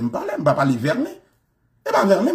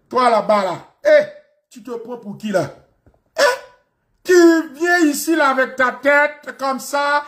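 put-on African French accent; 8 semitones higher than usual. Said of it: "ce sont les Africains". (accent africain en français, aigu et provocateur)

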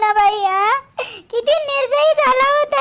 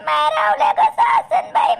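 tearful wail, stretching कसा; wailing lament; 2 semitones higher than usual. Acted. Mother wailing to her son about her worry. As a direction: cry out the question through tears.

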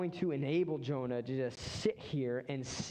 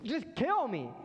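whiny mock plea; 8 semitones higher than usual. Mock back-and-forth Jonah.

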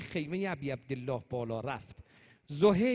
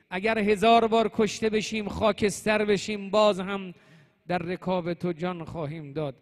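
louder, impassioned pledge; fervent vow; 3 semitones higher, 8 dB louder than usual. Retold or imitated. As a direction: retell a loyal companion's vow with force. Companion's vow of loyalty, retold.

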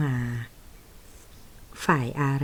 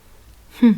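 a loud, sharp scornful huff; contemptuous scoff; 11 dB louder, much slower than usual. Acted. Man scoffs at the secretary's claim, sharp loud huff. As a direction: snort your contempt at her.

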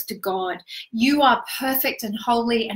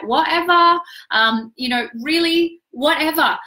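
higher-pitched, brushed-off whatever; dismissive; 5 semitones higher, 4 dB louder than usual. Acted. Coach dismissing information and knowledge as beside the point, dismissive. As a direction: toss it aside as unimportant.

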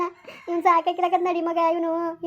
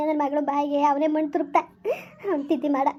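a curse spat out through tears; crying curse. Acted. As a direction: weep while cursing him. Mother curses son-in-law, weeping.

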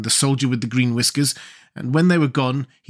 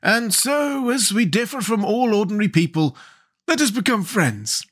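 high-pitched, pleasant proposal; 9 semitones higher than usual. A narrator's reading. King offers friendship to Jack, pleasantly. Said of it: "said the king pleasantly".

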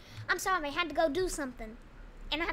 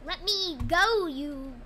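panicked shout; 2 semitones higher, 8 dB louder, much slower than usual. Real, not acted. Pleading shout at Shrek.

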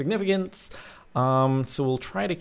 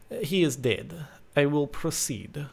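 lightly imitated foreign accent; a hint of the businessman's foreign accent; Zed Zalius. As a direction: read it in the character's put-on accent. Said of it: "I will read them in his accent".

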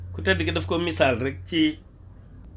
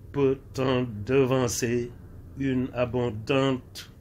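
very slow, measured French recital; verse recitation; much slower than usual. Acted. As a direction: recite phrase by phrase, drawing out each word with pauses.

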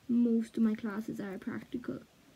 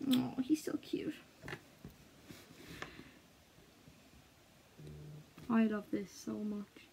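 soft whispered cooing; tender whisper; 8 dB quieter than usual. Real, not acted. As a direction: whisper fondly to the tattoo. Cooing over her tattoo.

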